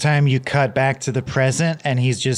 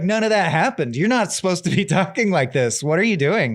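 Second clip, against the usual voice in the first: higher-pitched retold scolding with amusement; mock indignant denial; 5 semitones higher than usual. Father denying his son's memory, mock indignant. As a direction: scold in disbelief, starting high.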